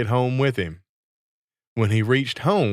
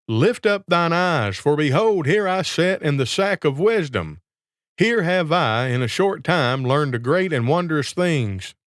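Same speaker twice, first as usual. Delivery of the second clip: lightly raised, pompous proclaiming; grand boasting; 4 semitones higher than usual. Acted. Trickster in the sack lures the student, lightly pompous. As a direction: proclaim like a sham sage.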